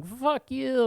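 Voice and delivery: high mock yell of a fan; retold yell. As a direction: hurl it across the stands. Crowds yelling at each other.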